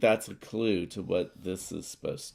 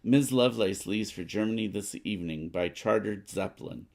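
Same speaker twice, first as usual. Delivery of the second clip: lightly voiced news report, read out steadily; a hint of a radio announcer; newspaper read; 3 semitones higher than usual. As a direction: read the card like a news bulletin. Reads newspaper card aloud.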